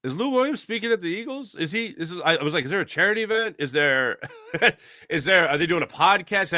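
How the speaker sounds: high, quick bewildered questions; retold surprise. Host retelling his reaction to the press clip, high puzzled surprise. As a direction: act baffled at the lookalike. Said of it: "and I went".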